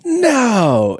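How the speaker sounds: high, loud mock yell of no; imitating wife's loud no in the kitchen; retold yell. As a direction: shout it in disbelief, played up. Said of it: "So she yelled".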